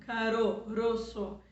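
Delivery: caroço with a light tapped R; single soft R, syllable by syllable. Shown as a demonstration. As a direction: tap the R in caroço lightly, split caro, roço. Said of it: "eu falei fraquinho".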